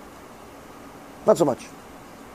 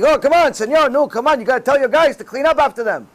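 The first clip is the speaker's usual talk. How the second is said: higher-pitched mock complaint; imitated janitor's yell; 4 semitones higher than usual. Janitor telling the boss to make his guys clean, mock yelling. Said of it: "used to yell at me".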